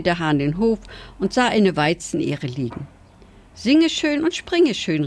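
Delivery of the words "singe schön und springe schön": higher, drawn-out call to the mice; rufend. A narrator's reading. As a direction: call their names out in a high voice. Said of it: "rief er". (rufend, mit hoher Stimme)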